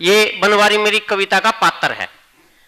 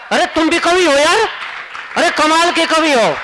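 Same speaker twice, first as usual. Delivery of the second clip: teasing mock praise; 6 semitones higher than usual. Real, not acted. Mock praise of the heckling audience.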